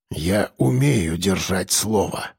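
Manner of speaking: low, slow and hoarse; a rough, slow old man's vow; хрипло, низко и медленно. A narrator's reading. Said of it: "хрипло ответил охотник".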